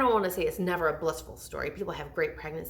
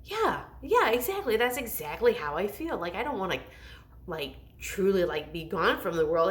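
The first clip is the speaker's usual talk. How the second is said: eager agreement. Retold or imitated. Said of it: "And I was like".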